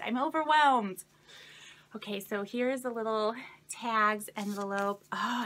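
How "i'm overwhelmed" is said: overwhelmed. Real, not acted. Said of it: "I'm just overwhelmed".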